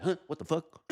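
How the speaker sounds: high, laughing mock baby voice; stunned baby. Baby voiced after the cheese slap, high and laughing. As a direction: play the baby's shocked confusion with a laugh. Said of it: "and is like".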